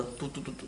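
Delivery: soft quiet dog-calling sounds. Shown as a demonstration. Teacher calling a distant dog, soft tu tu. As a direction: coax a far-off dog softly. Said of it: "आपने बोला".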